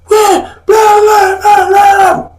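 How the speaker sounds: jeering high-pitched babble; mocking blah-blah. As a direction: squawk out blahs to mock a noisy crowd. Mocking rally chanters' noise.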